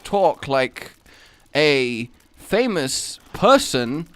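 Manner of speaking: badly done impression, slow and halting; Christopher Walken. Shown as a demonstration. Streamer showing off a shaky impression, haltingly. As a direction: lightly imitate a famous actor with odd pauses. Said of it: "It was supposed to be Christopher Walken".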